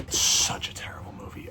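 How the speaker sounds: real whisper to oneself; voiceless, under-the-breath remark; whispered aside. Real, not acted. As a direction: whisper it as a private verdict. Aside while looking something up.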